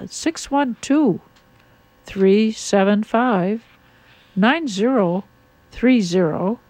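phone number read out slowly, group by group; slow and measured, pausing between number groups; slow, spaced-out dictation. Real, not acted. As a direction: give the digits slowly so listeners can write them down. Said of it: "I say it slowly".

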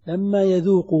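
لما stressed, يذوق said plainly after it; ركّز على لما ثم يذوق عادية. Shown as a demonstration. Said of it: "ما قال يذوقون". (نبر على لما)

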